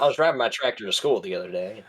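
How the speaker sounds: put-on joking Southern accent; put-on rural Southern twang. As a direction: play along as a Texan with a country accent. Joining in the Texan act.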